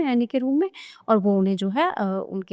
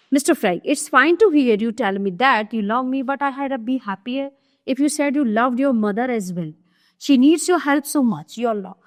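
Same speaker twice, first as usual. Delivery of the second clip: slow, deliberate reading of a stage script; slow classroom reading of a play; play read aloud; much slower than usual. Acted. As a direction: read each line out slowly for the class. Reads Mister Frank's line.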